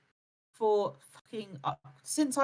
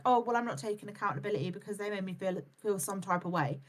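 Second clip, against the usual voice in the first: quick, lower mocking voice; mocking whiny excuse; 3 semitones lower, 4 dB quieter, faster than usual. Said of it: "you cannot be like".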